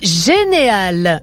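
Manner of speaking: word drawn out very slowly, then cut off; stumbling into a hard word; slowly feeling out "généal-" before breaking off; halting start. Shown as a demonstration. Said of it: "je vous traduis pas ça".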